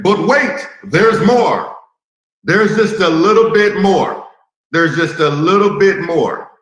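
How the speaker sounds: lightly hammed-up TV pitchman; infomercial voice. Shown as a demonstration. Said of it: "in my infomercial voice".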